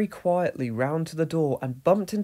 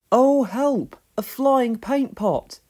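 loud, high alarmed cry; startled; 9 semitones higher, 6 dB louder, slower than usual. A narrator's reading. Pat grabs a hen in the dark barn, startled. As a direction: yelp as the hen flaps at you.

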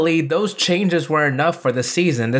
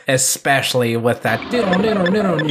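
imitating the changer sound; 3 semitones higher than usual. Shown as a demonstration. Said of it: "Wow, that was weird".

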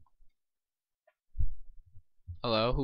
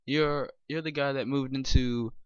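grumpy neighbor; 3 semitones higher, 9 dB louder than usual. Acted. Voicing the woken neighbor.

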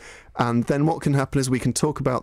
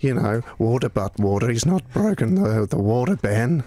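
put-on old country Australian. Shown as a demonstration. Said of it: "And I can do kind of".

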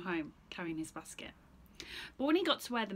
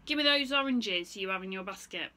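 gruff goat; 8 dB louder than usual. Acted. Goat threatens.

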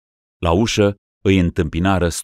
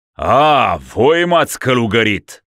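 loud, high, cracked shout; hoarse frightened cry; 6 semitones higher, 6 dB louder than usual. Acted. Ruler crying out on finding himself a monk. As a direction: rasp it out in horror. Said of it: "cu glas răgușat și spărios".

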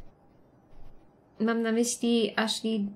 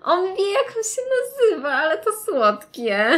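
high, loud gushing; squealing delight; 9 semitones higher, 6 dB louder than usual. Real, not acted. Streamer gushes to viewers about the cute monster, squealing. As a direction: gush like it's adorable, much higher and louder.

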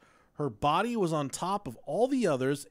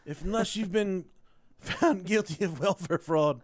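lawyer commercial voice; 4 semitones higher than usual. Pretend. Continuing mock lawyer ad.

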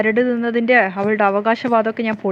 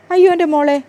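put-on higher and louder, an affectionate cry of oh my girl; fond exclamation; 7 semitones higher, 5 dB louder than usual. Mother to daughter, hiding her scheme, a loud fond exclamation. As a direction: burst out fondly to her daughter, raised and loud.

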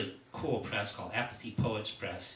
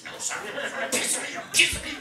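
high, wheezy mock defiance; imitating a drunk old poet taunting a cop; belligerent old drunk; 4 dB louder than usual. Jack taunts the NYPD cop, high mock belligerence. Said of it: "He goes".

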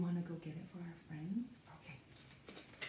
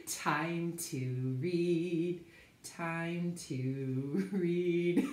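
sing-song announcement; 2 semitones lower, much slower than usual. Pretend. Announcing reading time.

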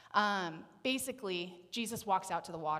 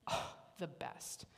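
whisper; 3 semitones lower, 7 dB quieter, slower than usual. Real, not acted. Savoring thought of Jesus' breakfast.

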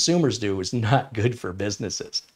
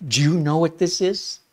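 higher, eager question; higher excited quote; 7 semitones higher, 3 dB louder than usual. Retold or imitated. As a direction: mimic his delight. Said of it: "he's really excited".

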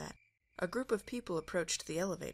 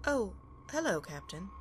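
bright, much higher cheery greeting; 4 semitones higher than usual. Acted. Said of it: "the dismembered android said cheerily".

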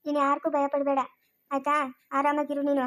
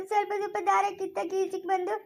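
much softer, voice breaking into tears; crying; 4 dB quieter than usual. Acted. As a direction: sob it out quietly. Girl tells escaping the sack. (ಅಳುತ್ತಾ ಮೆಲುದನಿಯಲ್ಲಿ)

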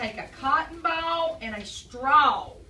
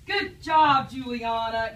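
shouted good job; loud praise; 4 dB louder, slower than usual. Real, not acted. Teacher praising Juliana for her answer, loud and excited.

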